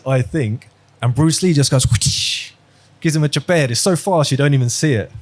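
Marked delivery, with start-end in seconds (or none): 0.1-0.7 a light mocking echo of "I think", stress on "I". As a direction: repeat "I think" back at him as a rebuke. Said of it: "And he says".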